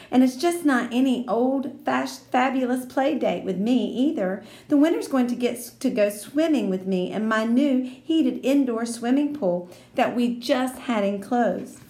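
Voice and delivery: put-on high, bragging little girl voice; proud rich girl bragging; boastful Lucille.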